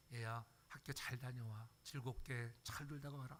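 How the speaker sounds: put-on soft, slow send-off to a child; tenderly see the kid off to school; a mild, soft parent's goodbye; gentle farewell.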